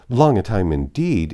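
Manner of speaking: hearty interjection. A narrator's reading. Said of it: "interposed Missus Jennings".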